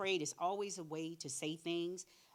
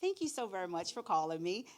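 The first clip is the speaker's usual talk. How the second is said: polished, formal thank-you, a touch louder; professional; 3 dB louder than usual. Retold or imitated. Mother switching to professional tone on the phone, polite and formal. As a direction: switch to a businesslike phone manner. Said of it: "then she got professional".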